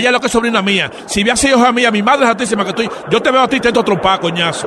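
acted fury. Fake uncle refuses to calm down, furious. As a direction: throw the threat back at him.

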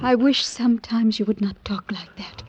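whispered wish. Acted. Lover uneasy at his talk.

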